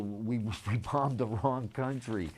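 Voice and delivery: laughing nervously mid-sentence; uneasy chuckle through the words. Real, not acted. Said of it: "that's a nervous laugh".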